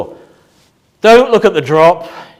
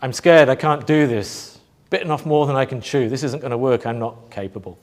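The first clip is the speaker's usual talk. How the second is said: scared little voice; 5 semitones lower, 4 dB quieter than usual. Acted. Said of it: "hear the little voice say".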